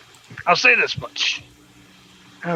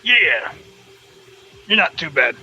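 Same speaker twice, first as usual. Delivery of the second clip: gangster New Yorker. Acted. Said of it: "sounds a little gangster New Yorkie".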